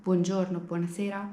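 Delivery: "buongiorno, buonasera" said the Italian way; Italian pronunciation. Shown as a demonstration. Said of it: "the Italian".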